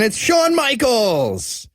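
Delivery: high, drawn-out name announcement; excited reveal. Real, not acted. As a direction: draw the name out like a big reveal. Gleeful reveal of a wrestler's name.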